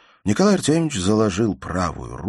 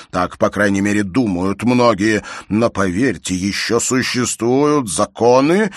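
a pompous father lecturing louder and higher, swelling with indignation; angry stern father; 7 semitones higher, 9 dB louder than usual. A narrator's reading. Pompous father lecturing his daughter, voice swelling with anger. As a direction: preach at her like an outraged parent.

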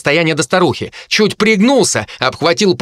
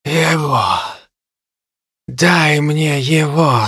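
harpy's demand; much slower than usual. Acted. Harpy Kai demands the boy.

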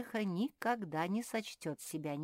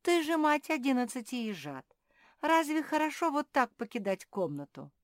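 high, loud remonstrance; scandalised, emphatic questioning; indignant reproach; 9 semitones higher, 8 dB louder than usual. Acted. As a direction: scold her in disbelief. Sophie reproaches hedgehog for jumping out.

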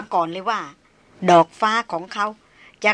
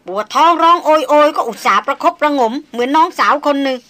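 louder and higher, resentful tirade; sulky indignation; 3 semitones higher, 4 dB louder than usual. Acted. Darin venting at Chayan about Maria, loud resentful tirade. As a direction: pour out grudges against the rival. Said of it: "ราชสกุลสาวพูดเสียงคุนๆ".

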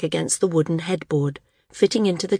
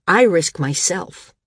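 firm; 5 dB louder, slower than usual. Acted. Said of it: "he said firmly".

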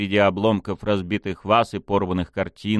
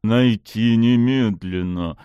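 slow hiss through the teeth; hissed order; 5 dB louder, slower than usual. Acted. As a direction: hiss the command, barely restrained. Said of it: "прошипел сквозь зубы Пушкин".

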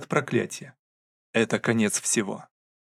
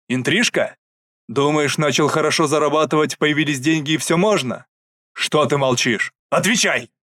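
stern angry interrogation. Acted. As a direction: demand an answer. Father interrogates son. (гневный допрос)

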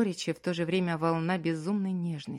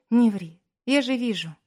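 louder, higher tearful retort; crying wife calls out his lie; tearful protest; 6 semitones higher, 7 dB louder than usual. A narrator's reading. Crying wife contradicts him.

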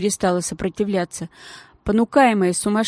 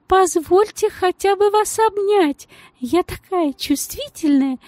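much higher, slow sentimental voice; gushing lady; 11 semitones higher than usual. Acted. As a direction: swoon over your own sensitivity. The lady gushes.

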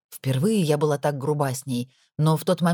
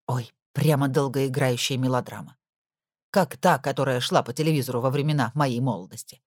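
a hint of a lower, confiding older woman; gossipy housekeeper; 4 semitones lower than usual. Nora confiding to Lana on the phone, lightly lower voice. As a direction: lean in and tell the secret.

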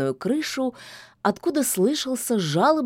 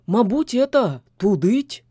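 a gruff little house spirit, louder; the domovoi offers a guess; 3 semitones higher, 4 dB louder than usual. A narrator's reading. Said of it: "предложил он". (голосом домового)

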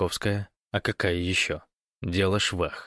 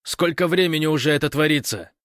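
louder, higher angry outburst; exploding in anger; 8 semitones higher, 6 dB louder than usual. Acted. Gosh yelling at Fyodor for calling so late, angry. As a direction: blow up at him. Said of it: "взорвался Гош".

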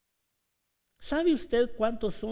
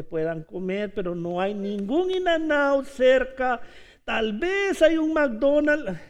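protesting disciples; 4 semitones higher, 4 dB louder than usual. Acted. Disciples protest, preacher acting.

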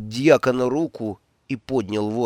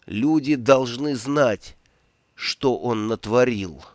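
slow, heavy-tongued exhaustion; exhausted slow slur; slower than usual. Acted. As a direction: drag the words out, barely able to speak. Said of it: "еле ворочая языком".

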